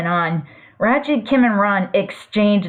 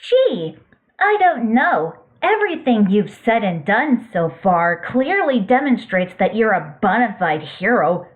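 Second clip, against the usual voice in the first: sarcastic. Acted. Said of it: "I was being sarcastic".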